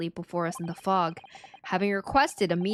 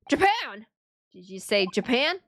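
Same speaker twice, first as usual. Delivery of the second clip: Scottish governor; 3 dB louder than usual. Acted. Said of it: "What is this accent?".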